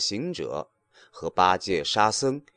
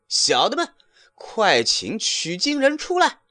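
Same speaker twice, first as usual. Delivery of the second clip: higher, louder call to the troops; 10 semitones higher, 3 dB louder than usual. A narrator's reading. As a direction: summon the little monkeys. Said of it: "叫声". (猴王高声呼唤小的们)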